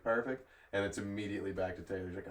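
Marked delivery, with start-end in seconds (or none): 0.0-0.5 slightly raised server's acknowledgement; imitated server. Server taking the next order, lightly imitated upbeat reply. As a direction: lightly mimic an upbeat waitress.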